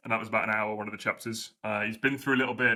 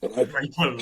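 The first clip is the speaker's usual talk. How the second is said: Rykel with a light Welsh lilt, falling; lightly Welsh Rykel; Welsh accent; 3 dB louder than usual. Pretend. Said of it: "the Welsh accent that we were doing".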